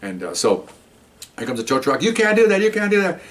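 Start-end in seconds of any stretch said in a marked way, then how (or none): 2.0-3.2 much higher, mock indignant protest; imitating protesting woman. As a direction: squeal her protest up high. Woman protesting tow truck.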